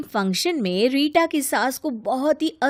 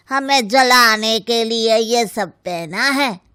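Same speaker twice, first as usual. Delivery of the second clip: catty mockery; 5 dB louder than usual. Relatives mock the mother-in-law.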